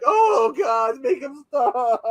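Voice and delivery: hammed-up pleading groan; mock exasperated shout; exasperated characters. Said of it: "they're like".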